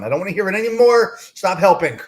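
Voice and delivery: a fed-up wife's hammed-up rant; mock exasperated wife. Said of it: "she's gonna say".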